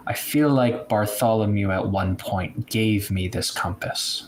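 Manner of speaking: ordinary delivery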